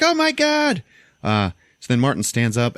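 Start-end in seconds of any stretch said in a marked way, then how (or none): 0.0-0.8 very high, louder oh my God; shocked gasp of words. Retold or imitated. Martin reacts to his wound, very high and shocked. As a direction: squeal it in disbelief. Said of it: "And he's like".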